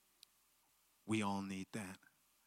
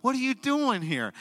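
put-on girl's question; 13 dB louder than usual. Voicing the girl.

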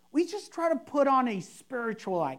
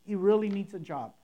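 softer, earnest plain prayer; sincere simple prayer; 3 semitones lower, 3 dB quieter than usual. Shown as a demonstration. Pastor demoing a heartfelt prayer for a jobless friend. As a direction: speak it from the heart, no fuss. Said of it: "just pray to God, sincere and simple".

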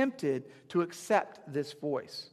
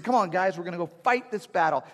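rallying call; 2 semitones higher, 5 dB louder than usual. Retold or imitated. David rallying his soldiers.

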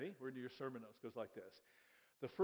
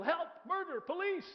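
higher, louder cries for help, half-acted; mock yell for help; 13 semitones higher, 5 dB louder than usual. Habakkuk crying out to God, a mock yell for help. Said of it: "How many times do I have to yell".

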